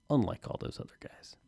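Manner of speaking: hushed, conspiratorial dig; whispered aside. Acted. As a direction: drop to a whisper for the jab.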